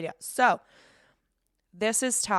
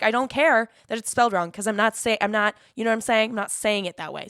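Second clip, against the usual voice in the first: retold pissed reply; 3 semitones higher, 5 dB louder than usual. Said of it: "I literally get pissed because I'm like".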